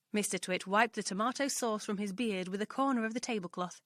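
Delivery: plain reading voice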